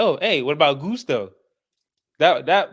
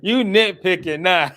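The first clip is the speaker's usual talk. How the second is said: teasing laugh; 5 semitones higher than usual. Real, not acted. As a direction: tease him then laugh. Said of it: "teasing friend".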